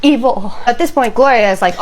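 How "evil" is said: acted fear, high and slow; petrified whimpering. Petrified husband telling his wife about the shirt, whimpering. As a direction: whimper it haltingly like a terrified child. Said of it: "absolutely petrified and whimpering like a child".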